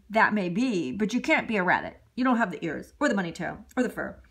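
low, patient father frog; a hint of a deep dad; lightly voiced daddy frog. Daddy frog answers son in a low fatherly voice.

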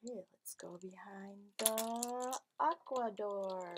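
soft secretive whisper. Acted. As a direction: whisper like sneaking up to it. Suspense before door.

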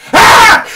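a very high, very loud frightened shriek; sudden yelp of childish terror; child's terrified scream. Retold or imitated. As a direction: shriek like a scared little kid. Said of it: "and he goes".

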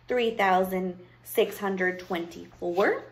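slow, measured count with a rising last word; witch counting. Acted. Witch counts her pieces of gold, absorbed. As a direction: count coins slowly, unhurried.

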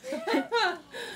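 high witchy cackle; witch cackle. Acted. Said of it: "the teeny tiny witch woman voice".

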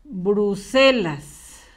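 Bruselas stretched out very slowly, syllable by syllable; slow dictation. Shown as a demonstration. Teacher dictating the word to young pupils, very slowly. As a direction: drag the word out so children can write it. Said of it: "Lo vamos a escribir con mayúscula".

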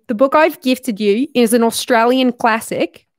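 amateur put-on Australian accent. Shown as a demonstration. Reading the gift-giver's note about the book, put-on Australian accent. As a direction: read it out in an imitation Australian voice. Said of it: "get back in the Australian voice".

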